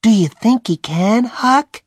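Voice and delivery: put-on high, anxious boy's voice; a nervous boy asking in the dark; Tom. Tom asking Huck at the graveyard, high and anxious.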